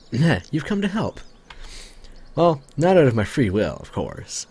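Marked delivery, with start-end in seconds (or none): 0.0-1.2 laughing. Acted.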